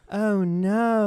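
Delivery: loud, high mock alarm; mock frightened wife. Cohost voicing the scared wife at Walmart, loud high mock alarm. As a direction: squeal it in fake panic. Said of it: "She's like".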